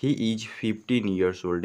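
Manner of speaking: slow and clear, word by word; slow teaching read; slow model sentence. Shown as a demonstration. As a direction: model the sentence slowly for students. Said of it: "कैसे बोल देंगे".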